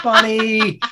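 mock tearful cry of a pet name; imitated crying plea. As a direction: plead the name through mock tears. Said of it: "where she's like".

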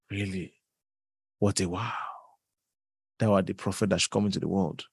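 low, soft, syrupy mock reverence; mocking flattery. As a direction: lay on sarcastic humble praise. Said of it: "God was telling me".

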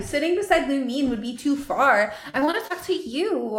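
mild pouty complaint, dragged last word; pouting. Acted. Inessa wanting to sit by Ajax, pouting. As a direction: plead with a little pout. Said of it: "Inessa pouts".

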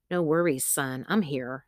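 soft, settled motherly comfort; calm reassurance. A narrator's reading. Mother comforting her frightened son, calm and soft. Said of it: "her voice sounding calmer and stronger".

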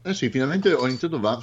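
chewing while talking; mouth full. Real, not acted. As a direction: talk through a mouthful of nougat. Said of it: "sto facendo un po' di torrone e sto masticando".

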